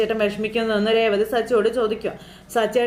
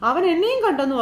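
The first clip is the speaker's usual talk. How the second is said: mock panic; 7 semitones higher than usual. Beeranikka telling Meera he was seen, mock panic. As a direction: sell the fright of being spotted.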